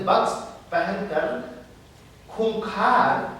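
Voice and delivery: emphatic declamation with dramatic pauses; firmly declaimed verse; poetry recitation. Acted. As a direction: recite it phrase by phrase, weighting key words. Recites the poet's lines.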